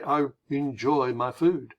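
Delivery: slow, stretched-out "enjoy"; unhurried and over-deliberate; drawn-out emphasis. Shown as a demonstration. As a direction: say it slowly, lingering on each word. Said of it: "based on the way you say it".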